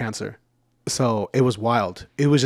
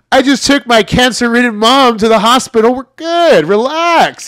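retold talk to cop; 10 semitones higher, 8 dB louder than usual. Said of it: "I go".

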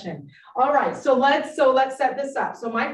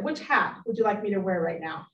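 normal talking voice

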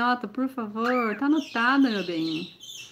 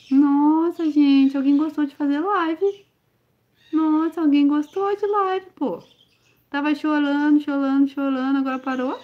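high, louder, gushing over the chick; 6 semitones higher, 4 dB louder than usual. Real, not acted. Falando animada com filhote. (falando com o filhote, empolgada e carinhosa)

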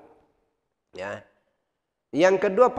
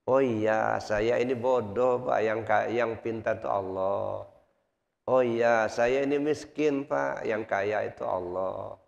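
humble acceptance; 3 semitones lower, slower than usual. Retold or imitated. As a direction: let the pride drain out gently. Humbled man accepts, calms down.

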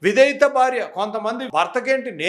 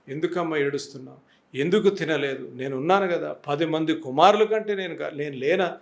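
tender husband; 4 semitones lower than usual. Acted. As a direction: ask her tenderly why she is crying. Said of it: "అని అన్న వెంటనే".

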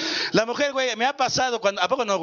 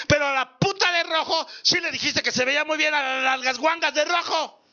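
mock crying wife; 6 semitones higher than usual. Wife's tearful reproach, retold.

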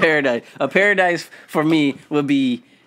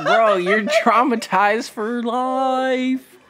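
laughing; 7 semitones higher, much slower than usual. Real, not acted. Laughing teasing.

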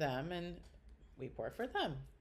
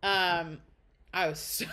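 ordinary talk

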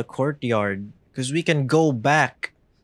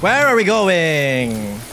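panicked; 5 semitones higher, 5 dB louder than usual. Real, not acted. Chased, panicking.

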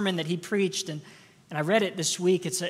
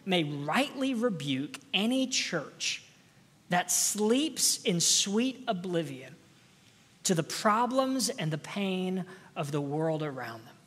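slow quoted reading; 2 semitones lower than usual. Retold or imitated. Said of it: "this is his words".

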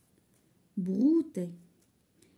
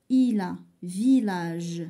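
"Il a village" read slowly, "Il" stressed with a clear l; slow careful reading; 2 semitones lower, 5 dB louder, slower than usual. Shown as a demonstration. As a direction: spell out "Il" slowly, sounding the l. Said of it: "فشي كلمات كنسمعو ال". (lecture lente de "Il a village", le l de "Il" bien prononcé)

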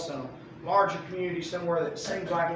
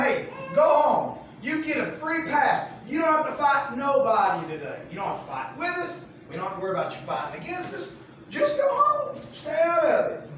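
shouting them home; 7 semitones higher, 3 dB louder than usual. Retold or imitated. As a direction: shout them away like a warning. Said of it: "They're just telling him".

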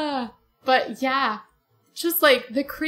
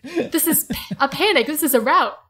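indignant Reepicheep; 4 semitones higher, 4 dB louder than usual. Retold or imitated. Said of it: "Whatever is that word".

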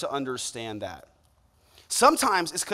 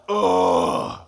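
reluctant groan; 4 dB louder, slower than usual. Retold or imitated. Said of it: "I always was just kinda like".

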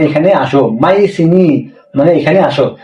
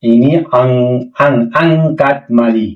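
stretched out, syllable by syllable; slow dictation; 4 semitones lower, much slower than usual. Shown as a demonstration. Teacher dictating Malay phrase very slowly. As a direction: model it slowly so students can write it. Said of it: "slow model phrase for learners".

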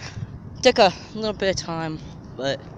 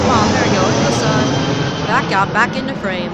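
excited; 2 semitones higher, 6 dB louder than usual. Real, not acted. Tracking the jet on camera.

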